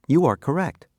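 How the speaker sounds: upbeat teacher praise; cheerful praise. Acted. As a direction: reward the student with a lift. Praising correct answer.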